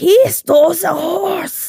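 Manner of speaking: put-on very high, feeble, slow, drawn-out sickly child voice. Retelling a story, voicing a boy speaking up in front of the adults, imitating sickly young Rasputin. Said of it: "as a very sickly Russian kid".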